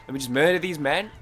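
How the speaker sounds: mock-threatening gamer declaration. Real, not acted. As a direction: bark it out like a gamer's battle cry.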